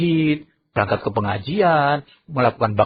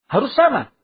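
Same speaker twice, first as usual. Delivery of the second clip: onlooker; 9 semitones higher, 4 dB louder than usual. Acted. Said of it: "itu mengatakan".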